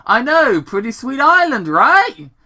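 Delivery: put-on high, loud bragging kid; young Sonic. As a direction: shout it up high, showing off.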